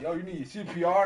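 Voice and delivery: high, loud question; lifeguard calling out. Retold or imitated. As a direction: imitate an urgent offer of aid.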